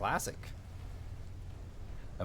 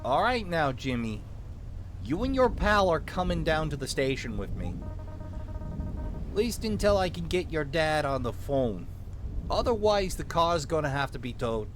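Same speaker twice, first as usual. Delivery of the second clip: put-on small-town cop with a light Minnesotan accent; lightly Minnesotan lawman taking charge; vaguely Minnesotan accent. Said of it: "give him a vaguely Minnesotan accent".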